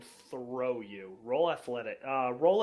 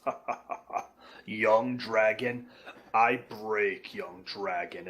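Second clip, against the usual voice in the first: mocking giant laugh; 2 semitones lower than usual. Giant laughing off the young dragon, slow. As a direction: scoff at the little dragon like a giant. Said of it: "he looks at you and laughs and says".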